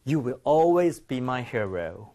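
a lightly heartfelt, drawn-out reading; with feeling. Shown as a demonstration. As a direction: read the line with feeling. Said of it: "느낌 살려서 한번 읽어볼게요". (느낌 살려서 천천히)

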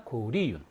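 코, 리, 윤 said with each syllable split apart and held; spelled out slowly syllable by syllable. Shown as a demonstration. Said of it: "하지 말고".

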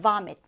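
vomit with the weight on VOM, mit falling away; stress on first syllable. Shown as a demonstration. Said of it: "첫 음절에 강세를 두고".

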